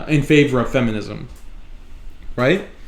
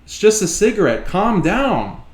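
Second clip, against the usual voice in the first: dismissive smoker; 6 semitones higher than usual. Retold or imitated. Smoker brushing off a warning to quit, high mocking voice. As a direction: imitate a smoker waving off the warning, pitched up. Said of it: "And their response is".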